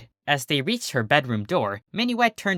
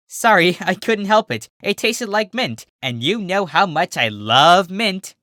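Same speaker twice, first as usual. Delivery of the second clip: playful tease; 6 semitones higher, 6 dB louder than usual. Acted. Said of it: "she said with a wink".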